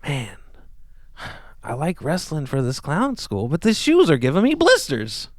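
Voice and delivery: rising into a high, slow silly voice; joke voice. Pretend. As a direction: builds into a goofy clown whine. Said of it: "telling in a joke form".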